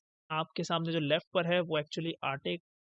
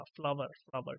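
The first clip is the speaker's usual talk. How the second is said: American flower; 4 semitones lower, 5 dB quieter than usual. Shown as a demonstration. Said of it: "अगर आप American side से देखें".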